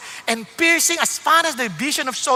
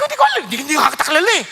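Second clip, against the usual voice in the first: laughing denial; 3 semitones higher, 3 dB louder, much faster than usual. Retold or imitated. Pastor laughing while denying.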